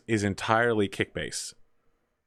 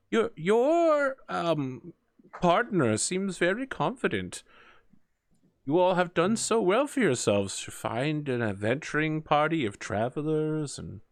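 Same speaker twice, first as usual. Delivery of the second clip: put-on slightly theatrical old traveler, pitched higher; lightly voiced grandmotherly woman; 5 semitones higher than usual. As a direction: lightly play an admiring elderly woman. Game master plays grandmotherly traveler.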